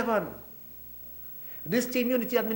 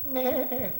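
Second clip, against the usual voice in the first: imitated goat bleat; 2 semitones higher, 8 dB quieter than usual. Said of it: "But a goat".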